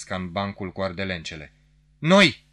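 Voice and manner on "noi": loud, high eager cry; shouted in unison. A narrator's reading. Couple answering the officer's call, shouting eagerly. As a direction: jump up and shout it. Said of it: "am strigat într-un glas".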